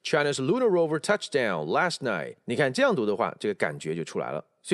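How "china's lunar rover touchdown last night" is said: "lunar" stressed, "touchdown last night" joined up; linked model reading. Shown as a demonstration. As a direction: flow through the phrase, peaking on "lunar". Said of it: "所以合在一起". (连读示范，重音在lunar)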